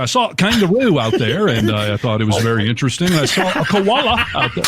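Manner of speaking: slipping into a put-on Aussie accent; mock Australian accent. Traveller telling of the outback, mock Australian accent. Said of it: "slip into it for certain words".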